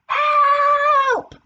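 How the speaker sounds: high, loud scream for help; yelling for help. A narrator's reading. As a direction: cry out at the top of your lungs. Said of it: "yelled at the top of his lungs".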